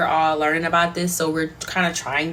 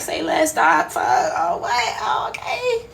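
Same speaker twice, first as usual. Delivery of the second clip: high, squealed hyped reaction; over-the-top excited okay; delighted agreement; 8 semitones higher, slower than usual. Retold or imitated. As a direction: react with mock giddy glee, voice shooting way up. Acting out glee at doctor's advice.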